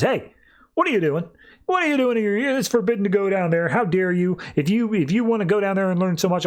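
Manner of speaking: high, indignant mock telling-off; scolding father. David Kane catching Cassandra sneaking down, scolding. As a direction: act out catching a child out of bounds.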